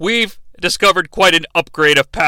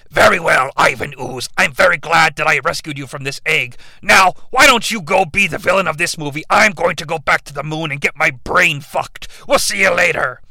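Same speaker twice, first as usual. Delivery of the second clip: Lord Zed voice; 3 semitones lower than usual. Retold or imitated. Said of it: "Lord Zed's like".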